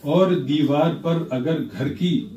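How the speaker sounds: playful measured poetic recital; humorous nazm recitation. Acted. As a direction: recite with a wry smile.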